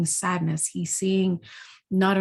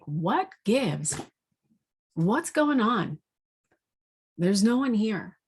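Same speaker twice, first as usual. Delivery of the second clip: mild frustration; 3 semitones higher, slower than usual. Retold or imitated. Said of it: "getting a little frustrated now".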